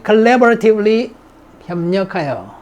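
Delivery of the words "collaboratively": slow syllable drill. Shown as a demonstration.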